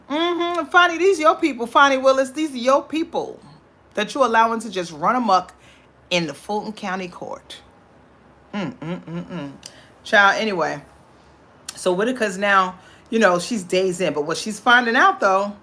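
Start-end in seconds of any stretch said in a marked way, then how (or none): 0.1-9.5 sassy call-out. Real, not acted. Calling out DA Fonny Willis.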